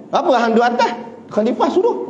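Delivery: high, laughing reply; laughing explanation. Retold or imitated. Companion tells the woman the caliph made him ride, high and laughing. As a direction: laugh through the excuse.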